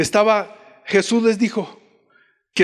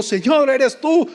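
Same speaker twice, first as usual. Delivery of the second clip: higher, slower rising question; retold fearful question; 6 semitones higher, slower than usual. Peter asks Jesus on the lake, mock fearful question. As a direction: ask it anxiously, pitched up. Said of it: "todos estaban con miedo y dijo".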